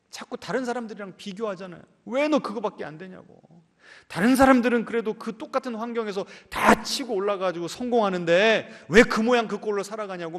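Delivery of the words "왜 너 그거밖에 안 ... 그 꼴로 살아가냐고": higher, louder nagging at family; imitating someone pressing a relative hard; mock scolding. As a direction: berate them like an exasperated relative, lightly acted. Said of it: "막 다그치지 않습니까?".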